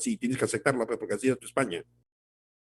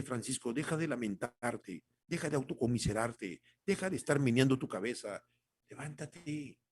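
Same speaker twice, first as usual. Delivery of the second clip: God's gentle voice; 2 semitones lower, 6 dB quieter than usual. Acted. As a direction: speak as God, gently telling him to rise. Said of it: "Dios te dice".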